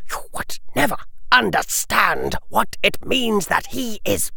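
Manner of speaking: a lord's vengeful rant; cold fury. A narrator's reading. Lucius enraged rant.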